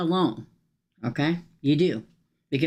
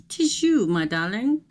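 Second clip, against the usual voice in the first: mock theatrical greeting; 3 semitones higher than usual. Playful greeting to viewer.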